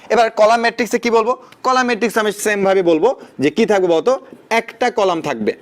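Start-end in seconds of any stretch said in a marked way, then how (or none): 4.5-5.5 slow emphasis. Shown as a demonstration. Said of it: "slow repeat for emphasis".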